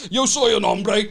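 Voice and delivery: mock Spanish said clumsily and slowly; bad Spanish. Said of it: "I'll just be like".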